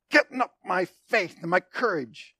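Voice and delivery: mock straining to muster courage; put-on effortful self-psyching; working himself up. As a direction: act out pumping yourself up with effort. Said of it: "from him working himself up".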